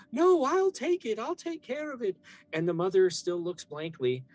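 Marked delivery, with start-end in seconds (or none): 0.1-2.2 eager Antonia. Acted. Antonia insists to the mother on taking the child, high and loud. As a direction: jump in high and loud, grabbing the chance. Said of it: "Antonia goes".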